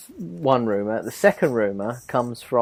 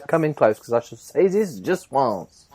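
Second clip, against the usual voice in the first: put-on Welsh accent. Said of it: "the best Welsh accent I've ever heard".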